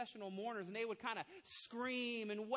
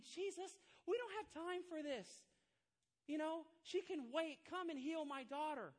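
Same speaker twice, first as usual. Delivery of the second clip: higher, pleading desperate father; a frantic dad begging Jesus to hurry; 6 semitones higher than usual. Retold or imitated. Jairus begging Jesus to come now, desperate. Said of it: "a desperate dad going".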